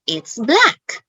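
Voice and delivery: lightly put-on teacher voice, lifted pitch; demonstrating to learners. Shown as a demonstration. Teacher showing how to teach colors, lightly put-on classroom voice. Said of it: "teach about color, I would say".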